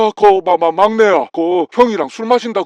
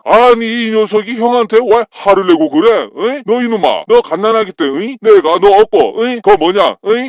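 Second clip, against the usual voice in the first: put-on drunken scolding. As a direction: hammer him with drunk scolding, prodding with "응?". Drunk brother scolds younger.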